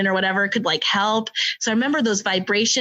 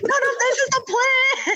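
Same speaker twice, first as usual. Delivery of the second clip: laughing insistence. Retold or imitated.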